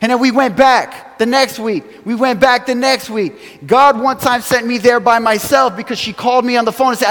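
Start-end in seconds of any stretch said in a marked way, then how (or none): 2.0-3.7 slow it down, each word weighed; slower emphatic repeat. Real, not acted. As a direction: repeat it slowly so it lands.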